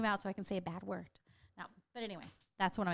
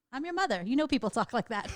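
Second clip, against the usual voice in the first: much higher, louder sarcastic retort; mock exasperated mom; 4 semitones higher, 6 dB louder than usual. Mom snapping back at her daughter, mock exasperated and loud. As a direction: play the fed-up mom, pitched up and loud. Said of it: "I'm like".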